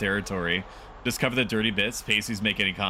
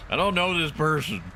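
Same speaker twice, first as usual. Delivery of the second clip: higher-pitched granny, kept composed; old lady; 6 semitones higher than usual. Acted. Old lady denies knowing someone, high granny voice. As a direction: hold the old-lady voice without cracking up.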